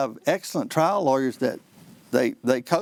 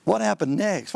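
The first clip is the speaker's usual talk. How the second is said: mock questioning; 3 semitones higher than usual. Shown as a demonstration. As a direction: throw the dull question back critically. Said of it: "What kind of question's that?".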